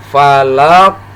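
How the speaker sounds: FALAQ with the final q stopped, then bounced; bounced final qaf. Shown as a demonstration. Teacher modelling falaq for learners to repeat, bounced ending. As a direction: say falaq, stop the q and let it rebound. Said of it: "lalu dipantulkan".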